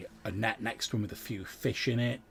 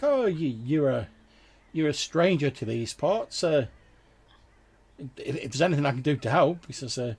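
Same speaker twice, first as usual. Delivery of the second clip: loud, higher-pitched villager voice; hesitant, helpful local, speaking up; friendly fisherman; 6 semitones higher, 11 dB louder than usual. Acted. Fisherman offering strangers help, loud and friendly.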